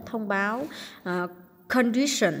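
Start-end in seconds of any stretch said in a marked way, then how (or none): 1.7-2.3 "condition" stressed on the second syllable. Shown as a demonstration. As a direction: punch the middle syllable of "condition". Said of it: "nhân âm hai". (nhấn âm hai "condition")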